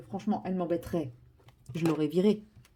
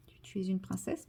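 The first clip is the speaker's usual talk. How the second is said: whispering; 7 dB quieter than usual. Real, not acted. Whispering to her cat.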